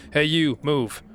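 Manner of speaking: loud, sharp order to move; angry shout. Acted. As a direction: bark it at the kid. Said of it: "an angry voice".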